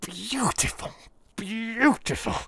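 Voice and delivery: high, savouring praise; delighted. Acted. Holmes admiring his own test, delighted. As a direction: relish each word.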